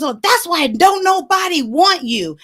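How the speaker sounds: high, loud mocking imitation; put-down. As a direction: retell a mother's scornful jab. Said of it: "she just kinda put me down".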